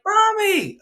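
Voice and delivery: very high shrieking Mommy; six-year-old son bangs the radiator, shrieking; child shriek. Retold or imitated. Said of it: "He's like".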